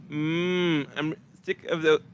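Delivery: slow, drawn-out lustful sighs; mock swooning woman. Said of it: "no woman out there who like".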